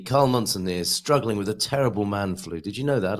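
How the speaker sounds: croaky voice from a heavy cold; hoarse voice. Real, not acted. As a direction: talk through a bad cold, hoarse. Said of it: "I do apologise for my voice".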